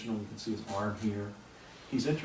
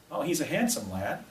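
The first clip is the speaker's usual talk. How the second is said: lightly raised helium-like pitch; a hint of a voice on helium; high voice; 4 semitones higher than usual. Martian professor complimenting the boy, mildly high voice. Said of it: "in a high voice".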